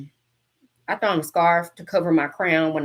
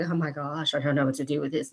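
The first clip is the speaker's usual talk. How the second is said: mock panic; 5 semitones lower, 6 dB quieter than usual. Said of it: "go into shock like".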